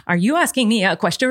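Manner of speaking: lightly mimicked prissy rich girl; a hint of badly acted poshness. Quoting a tomboy posing as rich, prissy voice. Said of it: "pretending to be the, like, rich, prissy girl".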